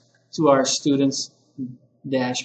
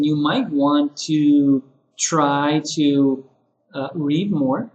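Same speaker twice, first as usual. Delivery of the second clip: gentle suggestion; slower than usual. Shown as a demonstration. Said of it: "you could say something like".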